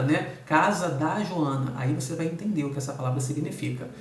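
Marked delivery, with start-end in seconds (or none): 0.4-1.7 slow example. Shown as a demonstration. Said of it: "precisa se apoiar em outra palavra".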